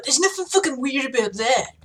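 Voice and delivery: gruff voice slipping into a bro lilt; a bit bro-y. Shown as a demonstration. The speaker defending hairdressing, slipping bro-y. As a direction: let the tough guy turn slightly bro-ish. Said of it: "I went a bit broy there".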